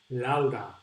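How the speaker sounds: Laura with Spanish vowels, drawn out; Laura pronounced slowly as in Spanish; Spanish pronunciation. Shown as a demonstration. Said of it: "In Spanish, we pronounce".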